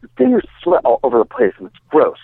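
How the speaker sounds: a hint of an effeminate, offended gym-goer; lightly mimicked feminine guy. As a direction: gently imitate a grossed-out little guy. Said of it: "he's all feminine".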